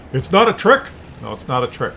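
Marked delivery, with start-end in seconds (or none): 0.1-0.8 higher and a bit louder, half-mocking; lightly voiced manager soothing the worried barista; mock manager reassurance. Manager quote then own repeat.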